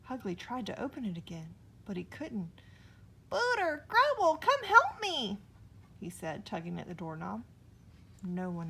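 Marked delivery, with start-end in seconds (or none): 3.3-5.4 high, loud call for help. A narrator's reading. Hugly trapped in the house, high loud call. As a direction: shout for the friends in panic.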